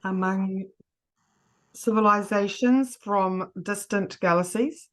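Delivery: slow, chunked dictation; dictating. Shown as a demonstration. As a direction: give it phrase by phrase, slowly. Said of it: "shall I just say it piece by piece".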